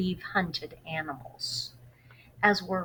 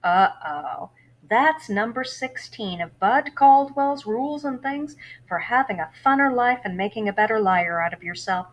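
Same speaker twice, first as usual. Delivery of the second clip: put-on worried boy; 3 semitones higher, 6 dB louder than usual. Bud reacts to the bad news.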